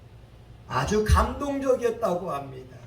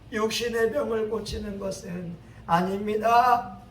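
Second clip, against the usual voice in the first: Son Yang-won; 5 semitones higher, 7 dB louder than usual. Acted. Pastor disclaims the healing before crowd.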